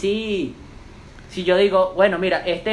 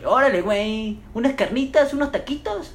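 mock Mexican accent; 4 semitones higher than usual. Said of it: "se me pegan rápido los acentos".

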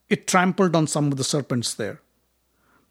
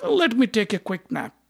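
yawning; 8 semitones higher than usual. A narrator's reading. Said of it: "Bhima yawned and said".

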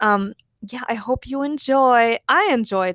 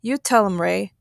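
absent-minded. Acted. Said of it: "told him absent-mindedly".

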